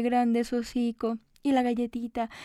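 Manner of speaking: ordinary delivery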